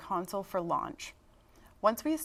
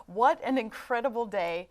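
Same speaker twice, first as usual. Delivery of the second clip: excited; 2 semitones higher, 7 dB louder than usual. Real, not acted. Celebrating the confirmed signal.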